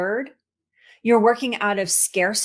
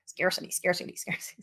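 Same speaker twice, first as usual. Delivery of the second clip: Pac-Man chomp; 3 semitones lower, 9 dB quieter, faster than usual. Retold or imitated. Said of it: "sounds like the Pac-Man thing".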